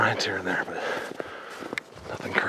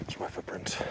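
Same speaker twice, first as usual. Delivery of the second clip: whispering; 2 semitones lower, 14 dB quieter than usual. Real, not acted. Sneaking off trail quietly.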